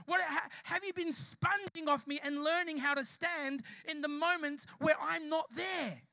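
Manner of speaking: forceful, emphatic sermon delivery; impassioned preaching. Real, not acted. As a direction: drive it home to the church. Preaches at raised intensity.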